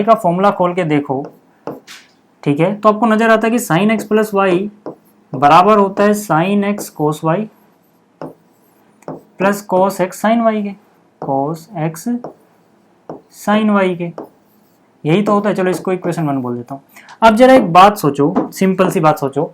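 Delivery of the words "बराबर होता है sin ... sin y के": slow, drawn out formula reading; slow dictation. Real, not acted. Teacher expanding sin of x plus y: slow dictation. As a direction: read each term slowly as you write.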